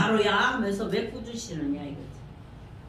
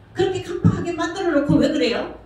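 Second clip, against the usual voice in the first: raised, louder protest: why blame me; mock indignant complaint; 6 semitones higher, 5 dB louder than usual. Church member protesting to the pastor, mock indignant. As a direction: throw the blame back, indignant.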